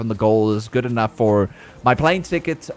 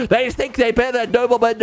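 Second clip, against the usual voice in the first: mock offended noble; 3 semitones higher than usual. Offended noble about beggars.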